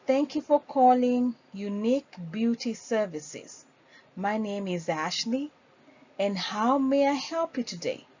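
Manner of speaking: friendly receptionist greeting; phone greeting demo. Shown as a demonstration. Trainer demonstrating a phone greeting, friendly. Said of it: "For example".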